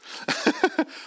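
quick high burst of laughter; short real laugh. Real, not acted. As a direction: break into a brief laugh. Laugh after apology.

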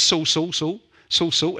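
a mock stutter, repeating the name in bursts. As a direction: stammer out the name over and over. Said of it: "He hears a voice that stutters".

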